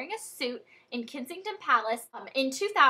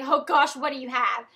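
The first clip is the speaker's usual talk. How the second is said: a loud, startled yelp of alarm, then a worried question; startled mom; 7 dB louder than usual. Retold or imitated. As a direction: jump at the stranger's words, then ask anxiously. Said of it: "she was like".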